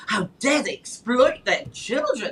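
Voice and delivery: imitated indignation at the parents; mock outraged critic. Caller mimics a man critiquing parents, mock outrage. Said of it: "this guy was critiquing the parents".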